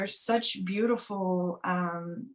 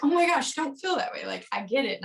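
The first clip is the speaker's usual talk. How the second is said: excited sympathy; 6 semitones higher than usual. Retold or imitated. A partner answering a jealous confession, gushing and high. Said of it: "And then being like".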